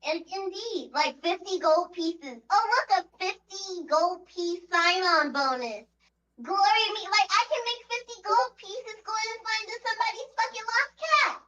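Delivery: high, mocking disbelief; sarcastic. Real, not acted. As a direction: scoff at the tiny pay. Sarcastic mockery of low pay.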